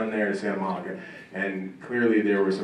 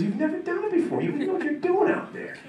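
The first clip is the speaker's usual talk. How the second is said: coach yelling. Retold or imitated. Coach shuts down football dream.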